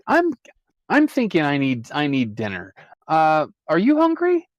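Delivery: polite phone guy fumbling to hang up on a creepy caller; flustered Tom on the phone. Acted. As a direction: stammer out a nervous brush-off.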